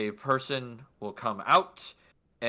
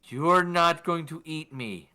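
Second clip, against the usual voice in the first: slow, high, careful explaining; gentleman soothing cat; 4 semitones higher, slower than usual. Acted. Gentleman reasons with the kitty, slow and high. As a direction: spell it out slowly as to a pet. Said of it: "you hear a gentleman go".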